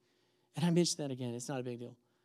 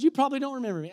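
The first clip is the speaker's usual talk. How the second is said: higher imitated sweet lady; 8 semitones higher, 3 dB louder, much faster than usual. Woman in car to former pastor, sweet voice. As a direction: lift the pitch like a sweet church lady. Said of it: "this sweet voice".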